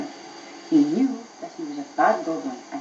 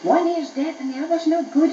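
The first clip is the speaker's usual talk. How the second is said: shouting; 9 semitones higher than usual. A narrator's reading. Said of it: "began to shout".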